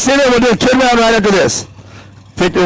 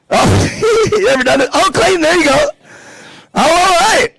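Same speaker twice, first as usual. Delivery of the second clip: excited; 8 semitones higher than usual. Real, not acted. Excited at kids hula hooping.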